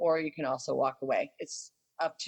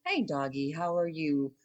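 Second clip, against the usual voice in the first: soothing dog greeting. Shown as a demonstration. Trainer showing how to calmly greet a jumpy dog, soothing. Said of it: "in a nice, soothing".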